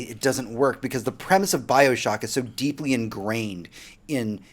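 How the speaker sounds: ordinary talk, nothing marked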